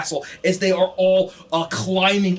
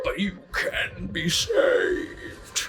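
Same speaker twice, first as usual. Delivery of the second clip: slow, much softer, breathy temptation; tempting demon whisper; 6 dB quieter, much slower than usual. Acted. Pazuzu tempting the party with a soft slow offer. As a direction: lure them in with a hush. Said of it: "As it booms out".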